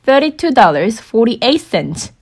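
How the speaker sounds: each word set apart, very slow; slow teaching demo. Shown as a demonstration. Teacher modelling the full price for learners, very slow. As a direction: spell the price out slowly for the class. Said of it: "달러랑 센트 붙여서 읽으면은".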